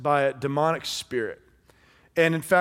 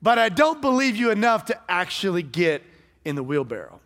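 hammed-up reluctant spectator; mock refusal; 7 semitones higher, 5 dB louder than usual. Spectator turning down the wheelbarrow ride, mock reluctant.

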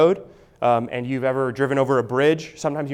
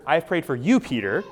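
"you" raised and singled out before "Peter"; stress on YOU. Shown as a demonstration. Jesus talking to Peter specifically, stressing "you". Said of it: "talking to Peter".

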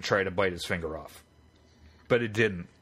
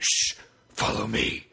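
serious hush; 3 semitones lower, slower than usual. Retold or imitated. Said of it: "the way he indicated".

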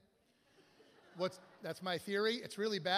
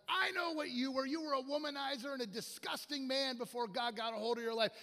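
pitched-up accusing outburst; calling out sin; 4 semitones higher than usual. Retold or imitated. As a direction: imitate a man exposing someone's past. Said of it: "He starts calling out everyone's sin".

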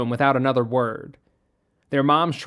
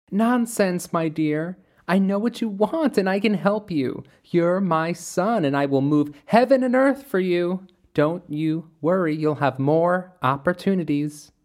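higher, smothering spectral mother voice; ghostly mother figure; 4 semitones higher than usual. Acted. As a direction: coax him like a possessive ghost. Mother Midnight speaks to Caleb.

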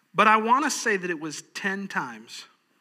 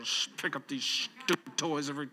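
a hint of a sulky kid, half under breath; mock-grumble like a kid cleaning up; grumbling child. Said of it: "but I'm gonna do it angry".

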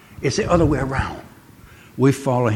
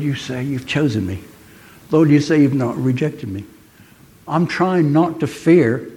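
retold prayer; 4 semitones higher than usual. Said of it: "just saying that".

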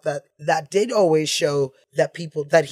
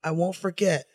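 put-on Italian accent; 5 semitones higher, 4 dB louder than usual. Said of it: "like, Italian accent".

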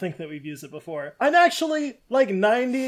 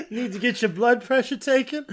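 bright squeaky sing-song welcome; 5 semitones higher than usual. Pretend. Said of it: "Why does she sound like this?".

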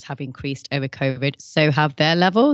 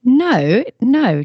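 firm no; 6 semitones higher, 4 dB louder than usual. Real, not acted. Host refusing bonus voice.

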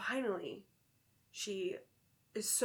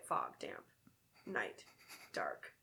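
storytelling voice. Acted. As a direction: build an eerie mood. Spooky story narration.

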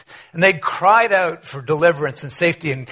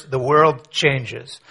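slow and weighty; 2 semitones lower, much slower than usual. Real, not acted. Slowed dramatic payoff line.

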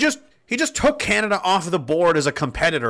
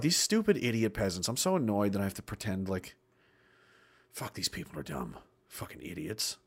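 imagined sneering Trudeau; 8 semitones lower, 11 dB quieter than usual. Retold or imitated. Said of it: "He's probably like".

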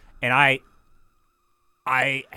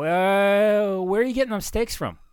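much higher, quick skeptical question; incredulous self-quote; 9 semitones higher, 3 dB louder than usual. Retold or imitated. Son questioning pop about the steaks, high and quick. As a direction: squeak it out in disbelief. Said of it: "I go".

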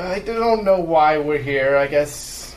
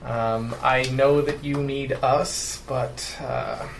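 put-on German accent. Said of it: "a German accent of some sort".

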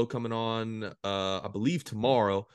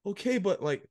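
mock scared; 8 semitones higher than usual. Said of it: "really scared".

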